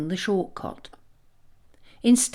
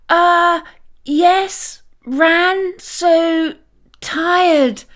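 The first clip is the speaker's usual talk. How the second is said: flustered fake exhaustion; 10 semitones higher, 7 dB louder, much slower than usual. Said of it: "Mind racing".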